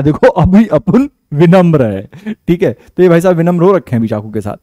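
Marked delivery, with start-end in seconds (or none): 0.0-2.1 lightly voiced Bambaiya tough guy, mock polite; a hint of Munna Bhai's street swagger; Munna Bhai impression. Teacher quoting Munna Bhai's knife scene, lightly voiced mock-polite goon. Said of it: "कह रहा है".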